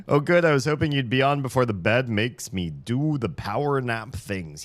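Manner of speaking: high, loud chirpy reading; high chat voice. Retold or imitated. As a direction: read the chat message brightly. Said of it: "reading chat in put-on voice".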